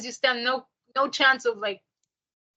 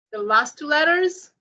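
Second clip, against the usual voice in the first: last two letters repeated, louder and higher; teacher repeats the point with more force; stress the last two letters; 4 semitones higher, 4 dB louder than usual. Shown as a demonstration. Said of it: "what you can do is, um, the last two letters".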